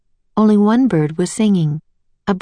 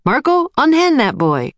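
a raised, higher commanding call; a hint of a booming wise man; 8 semitones higher than usual. A narrator's reading. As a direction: stop the seller with authority. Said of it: "the man's voice boomed".

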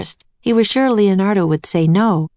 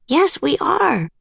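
high, drawn-out grinning reply; 11 semitones higher, slower than usual. A narrator's reading. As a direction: agree slowly through a grin, pitched high.

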